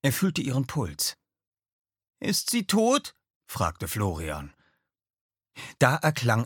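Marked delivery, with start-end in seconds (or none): 2.2-3.1 put-on much higher, anxious boyish voice; fearful question. Florian asks Oskar about Lisbeth, high frightened question. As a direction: ask it scared and small.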